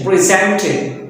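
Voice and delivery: "Presented" stressed on SENT; stress on second syllable. Shown as a demonstration. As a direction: hit the middle of "Presented", pri-ZEN-ted. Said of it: "stress would be on the next".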